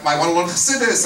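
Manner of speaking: "I want to learn Chassidus" as a hammed-up tearful plea; mock tearful pleading. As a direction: beg for "Chassidus" like a crying student. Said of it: "he's crying, he's begging, he's pleading".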